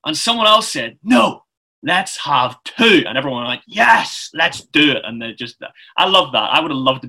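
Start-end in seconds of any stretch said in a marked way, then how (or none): 1.0-3.0 imagined meeting member's louder, higher "no"; eager objection. Retold or imitated. Someone else answers the choir suggestion, eager objection. 3.7-5.0 rally the meeting with a keen yes; eager agreement. Retold or imitated. Everyone at the meeting backs two choirs, eager agreement.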